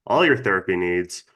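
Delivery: talking around a dental retainer; slightly lisping with a retainer in; retainer in mouth. Real, not acted. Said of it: "so if you hear that in my voice".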